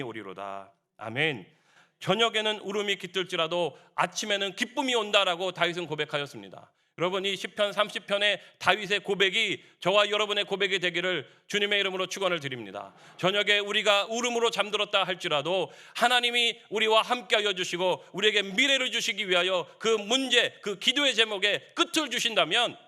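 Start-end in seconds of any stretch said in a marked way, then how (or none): 2.0-5.5 raised, loud preaching voice; emphatic repetition. Real, not acted. Preacher repeats David's confession to congregation, emphatic proclamation. 7.0-22.8 high, loud pulpit proclamation; full-force preaching. Real, not acted. Preacher blessing congregation with David's confession, full-force preaching.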